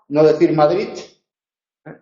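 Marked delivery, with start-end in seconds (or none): 0.5-0.9 "Madrid" ending in a strong t; hardened d. Shown as a demonstration. Teacher demonstrates the overstressed "Madrid". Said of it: "ni reforzarla".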